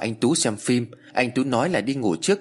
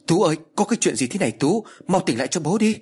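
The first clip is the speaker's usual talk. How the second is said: crying out; 6 semitones higher than usual. Acted. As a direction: call him back, desperate and high. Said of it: "rồi gào lên".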